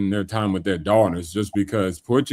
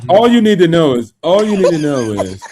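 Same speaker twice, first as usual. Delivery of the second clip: laughing; 7 semitones higher, 7 dB louder than usual. Real, not acted. Laughing while saying.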